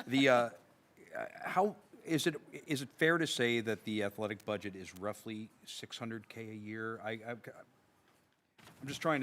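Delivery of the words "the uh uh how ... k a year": loud, booming drill-sergeant voice; Marine voice. Acted. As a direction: project it like a Marine on parade. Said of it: "I'll use my Marine voice now".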